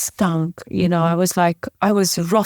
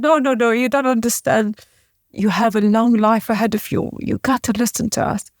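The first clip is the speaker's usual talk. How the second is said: retold insistent plea; 3 semitones higher than usual. Father pleading with her to continue.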